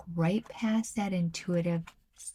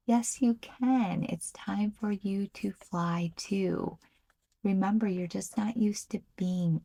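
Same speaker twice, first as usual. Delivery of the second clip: encouraging; 2 semitones higher than usual. Real, not acted. Encouraging viewer after fearful quote.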